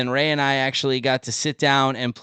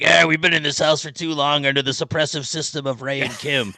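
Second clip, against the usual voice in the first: cats plotting a grand escape, a touch louder; rebel cat voice; 3 semitones higher, 3 dB louder than usual. Pretend. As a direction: speak as a pompous cat rallying the others.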